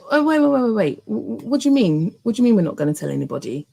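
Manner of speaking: high, startled stammering protest; wife stunned that the engagement must stay secret, sputtering; shocked disbelief. Retold or imitated. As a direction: trip over the words in alarm.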